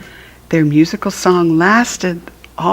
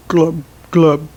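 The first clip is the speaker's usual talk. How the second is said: fish glub. Shown as a demonstration. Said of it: "was her only reply".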